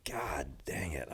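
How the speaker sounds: slow whispered curse under the breath; retelling a rooftop-bar whisper to Don; muttered curse. Retold or imitated. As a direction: hiss it out slowly, half to yourself. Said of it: "and I was like".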